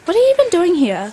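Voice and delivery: mildly irritable acted grumbling; grumpy. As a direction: sound put out by the visitor. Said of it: "Why do you sound so grumpy?".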